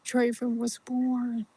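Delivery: soft unvoiced whisper; hushed recall. Friend whispers the memory to the storyteller. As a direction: breathe it out as a secret.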